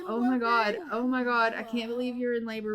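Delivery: quick, lightly panicked rambling; hammed-up new father losing it; mock panic. Roman panicking as his wife goes into labor, quick mock panic. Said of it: "Roman is freaking out".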